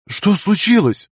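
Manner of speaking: high, drawn-out alarm; horrified question. A narrator's reading. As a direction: ask slowly, aghast at what you see. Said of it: "с ужасом спросила она".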